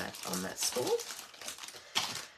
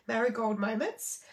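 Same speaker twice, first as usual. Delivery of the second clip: a small laugh over a tongue-twisting name; laughing at a stumble. Real, not acted. Stumbling over product names while reading the catalogue, with a laugh. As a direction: chuckle through "Marigold Moments" after tripping on it. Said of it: "I get very tongue-tied with all these names".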